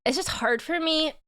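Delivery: choked up and emotional; quiet weeping. Real, not acted. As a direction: voice cracking, holding back tears. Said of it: "Sorry, I'm just emotional".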